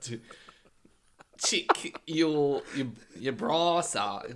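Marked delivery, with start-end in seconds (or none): 1.4-4.3 put-on Australian accent. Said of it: "she's Australian".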